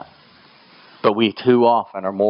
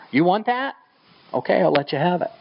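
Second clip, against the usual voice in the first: God giving in; 9 semitones higher than usual. Retold or imitated. Voicing God giving them over.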